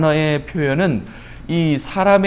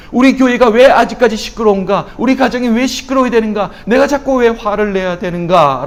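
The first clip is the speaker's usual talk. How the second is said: raised, high-pitched preaching cry; impassioned lament; 6 semitones higher, 4 dB louder than usual. Acted. Preacher voicing Jeremiah's "how long" questions, loud indignant lament. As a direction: cry out each question, pressing harder. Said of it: "탄식하고 있는 겁니다".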